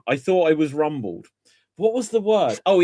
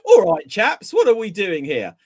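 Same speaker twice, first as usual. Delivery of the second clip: loud, hearty mock-English accent; 3 semitones higher, 6 dB louder than usual. Ross starting his class in a fake English accent, loud. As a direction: imitate an American faking an English accent. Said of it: "he just started in an English accent".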